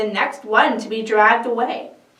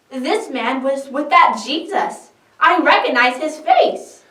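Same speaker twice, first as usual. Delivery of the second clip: higher, louder accusation; accusing servant girl; 5 semitones higher, 6 dB louder than usual. Acted. Servant girl accuses Peter by the fire, higher and loud. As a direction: point him out to the crowd.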